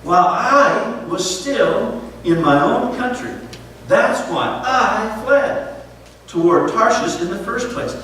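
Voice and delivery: lightly voiced prophet begging God, drawn out; Jonah's desperate prayer. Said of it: "In his furious, mad state, he says".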